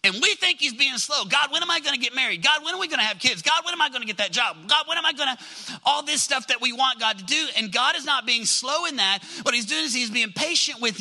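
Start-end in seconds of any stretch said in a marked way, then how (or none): 1.2-5.4 fast, higher-pitched mock nagging; hurried, whiny-style mimicry; impatient pestering. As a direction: rattle off impatient questions to God. Mimicking impatient believers' repeated questions.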